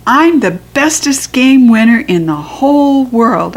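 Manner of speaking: put-on high proud kid boast; bragging little girl. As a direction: brag like a small champ. Bragging child quote.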